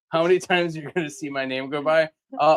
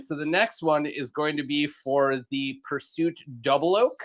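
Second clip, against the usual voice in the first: Eagle Man voice. Acted. Eagle Man announcer again.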